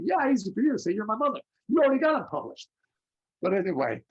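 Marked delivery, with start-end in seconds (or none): 0.0-2.7 mock-whiny retort, much higher, louder; sulky comeback to mom; whiny son. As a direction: son griping at famous mother.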